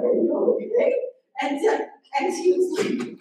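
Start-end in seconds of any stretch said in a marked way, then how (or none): 0.0-0.9 alarmed question. Retold or imitated. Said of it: "I'm like".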